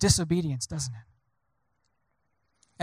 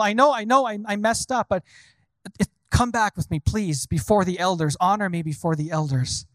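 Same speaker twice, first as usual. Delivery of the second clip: Saul pleading. Retold or imitated. Preacher acts Saul pleading with Samuel before the elders, urgent. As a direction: plead to be honored.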